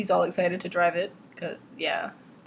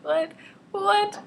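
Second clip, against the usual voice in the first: high, repeated squeak of disbelief; incredulous; 12 semitones higher, 4 dB louder than usual. Acted. Reader reacting to his stupid jealousy, incredulous. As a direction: squawk it higher the second time.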